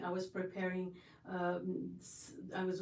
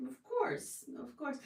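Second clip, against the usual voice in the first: delighted of course; 5 semitones higher than usual. Real, not acted. Gracious reply to viewer.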